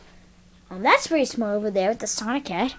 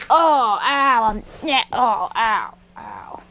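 mock pain; 4 dB louder, slower than usual. Acting out being hit.

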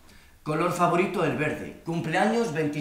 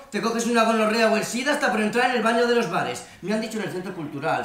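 higher-pitched impression of his mother; chattering mother; 4 semitones higher than usual. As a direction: imitate mum rambling on with her opinions. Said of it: "sigue diciendo mi madre".

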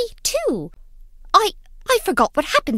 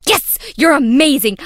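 high, loud delighted cheer; thrilled praise for a friend; excited cheer; 6 semitones higher, 7 dB louder than usual. Real, not acted. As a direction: cheer them on with real joy.

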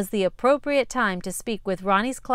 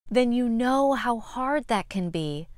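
gentle teacher; 2 semitones higher than usual. Acted. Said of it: "said Miss Thornberry".

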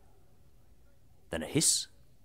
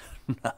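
brief, soft chuckle in character; quick acted laugh; short laugh; 3 semitones lower, 7 dB quieter than usual. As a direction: give a little dismissive laugh. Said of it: "and he laughed".

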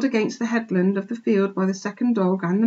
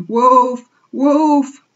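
loud, raised cry of alarm; panicked cry; 6 semitones higher, 9 dB louder than usual. A narrator's reading. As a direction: cry out like a confused flock. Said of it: "cried the flock in dazed confusion".

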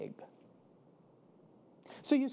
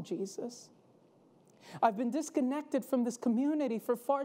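pleading freed man; 3 semitones higher than usual. Acted. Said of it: "the man will say".

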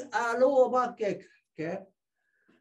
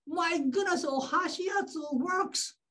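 higher-pitched marvelling; mock astonishment, pitched up; acted amazement; 5 semitones higher than usual. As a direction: marvel at the result. Patient amazed that treatment works.

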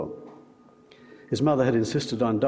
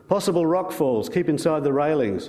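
father reads the warning sign out, a bit louder; mildly raised voice, reading a sign aloud; 4 semitones higher than usual. Acted. Father reading the sign to the group, mildly raised voice. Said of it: "read out in a louder voice".

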